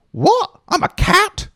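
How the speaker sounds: very high, loud startled squeak; surprised kitten. Pretend. Kitten sees itself in the mirror, very high and surprised. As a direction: gasp it out like a kitten shocked by its reflection.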